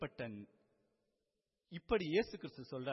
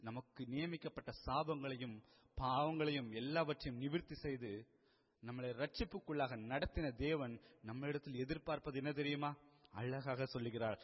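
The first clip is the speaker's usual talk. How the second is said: ordinary delivery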